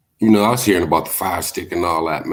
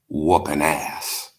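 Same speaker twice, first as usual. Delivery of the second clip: drawn out; 3 semitones lower, much slower than usual. Acted. Slow repeat for punch.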